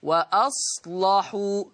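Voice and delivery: very slow وأصلحوا with a heavy, dark لام; teacher repeats the word slowly for the class; heavy lam. Shown as a demonstration. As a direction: draw out وأصلحوا and thicken the لام. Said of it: "شايفين اللام مغلظة إزاي".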